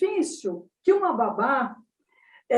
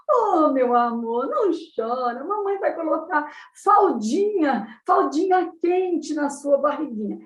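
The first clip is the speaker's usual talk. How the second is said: sing-song cooing with swooping pitch; mother's baby talk. Acted. Mother promises her crying baby a warm nappy, sing-song cooing. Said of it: "Esse cantarolar da forma da mãe falar".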